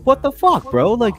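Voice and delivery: high, loud incredulous protest; high-pitched, hammed-up bewilderment; mock outraged disbelief. Imagined public reaction to nuking Jamaica.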